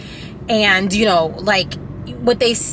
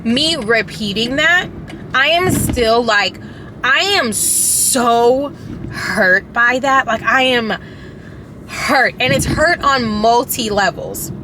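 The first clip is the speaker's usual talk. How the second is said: on the verge of tears; slower than usual. Real, not acted. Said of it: "see, I said I was gonna cry".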